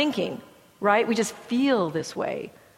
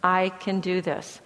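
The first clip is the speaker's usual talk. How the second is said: calm self-talk; 3 semitones lower, 5 dB quieter than usual. Shown as a demonstration. Student before a board exam, calming themself quietly. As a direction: breathe and talk yourself down gently. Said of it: "teach them to take a deep breath".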